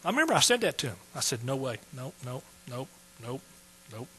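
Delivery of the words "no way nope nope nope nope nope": put-on old way of talking. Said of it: "it's the way I talked back then".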